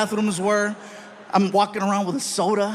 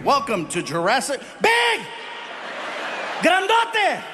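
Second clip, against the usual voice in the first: mock booming shout; 6 semitones higher than usual. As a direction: boom it like a monster movie trailer. Describing huge bodyguard.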